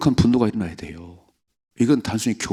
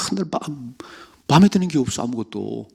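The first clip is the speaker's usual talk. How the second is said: grumbling complainer; 4 semitones higher than usual. Acted. Voicing a grumbler.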